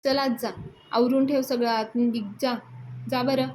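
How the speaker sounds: imitating an irritated brother sending him off; angry dismissal. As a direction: Yasha annoyed, shooing his brother off to bed, angry. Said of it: "यशा त्यांच्यावर देखील चिडतो".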